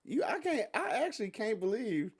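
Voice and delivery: real disbelief, starting high-pitched; in shock. Real, not acted. Host to co-host who called marriage necessary, in shock. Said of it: "I'm actually in shock".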